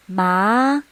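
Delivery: Ma gliding upward; second tone. Shown as a demonstration. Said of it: "this is how we mark the tones".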